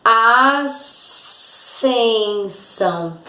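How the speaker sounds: "Ascensão" drawn out slowly, sc as a single s; careful teacher pronunciation of "Ascensão"; slow demo. Shown as a demonstration. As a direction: spell it out in sound, "Ascensão" very slowly. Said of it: "De novo aqui mais pertinho".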